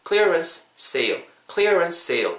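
"clearance sale" spoken deliberately for learners to copy; model pronunciation. Shown as a demonstration. Teacher models for learners, "clearance sale" said deliberately. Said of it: "이렇게 발음하시면 될 것 같아요".

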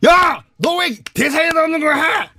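high furious shout; angry yell. Retold or imitated. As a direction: yell at the extra. Director yelling at him.

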